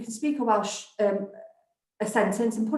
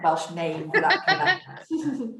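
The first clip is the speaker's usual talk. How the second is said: slow words with a laugh running through them; laughing at her own tangle of words; 3 semitones lower, much slower than usual. Real, not acted. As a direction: chuckle through the line.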